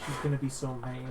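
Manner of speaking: fretful, timid little man; weedy nervous voice. Shown as a demonstration. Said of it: "that's how I find his voice".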